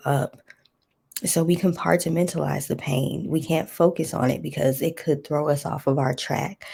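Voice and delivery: earnest spoken prayer. Acted. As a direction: pray it out steadily.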